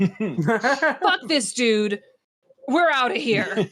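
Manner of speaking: slow, drawn-out verdict of cops giving up; fed-up cops. Acted. Game master voices cops quitting on Varric, slow and fed up. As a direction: draw it out like a cop walking off the job. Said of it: "They look at Varric and they're like".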